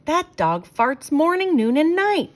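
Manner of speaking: exasperated dad complaining loudly; Father complaining. A narrator's reading. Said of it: "said Father".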